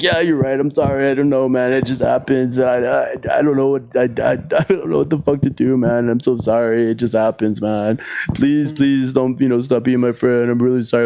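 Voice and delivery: pleading apology. Retold or imitated. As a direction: stammer out repeated apologies, mimicking a desperate friend. Imitates friend begging to stay friends.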